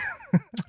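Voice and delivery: sharp snort of laughter. Real, not acted. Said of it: "done my snort laugh twice".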